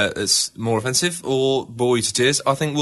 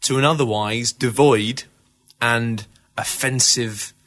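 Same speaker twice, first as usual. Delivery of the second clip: radio voice; slower than usual. Acted. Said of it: "you're doing it even more now".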